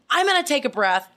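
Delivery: high-pitched, worked-up announcement; retold anger. Telling co-hosts the show is starting, retold irritation. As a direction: push on through the tantrum, mock-mad. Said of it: "I went from anger".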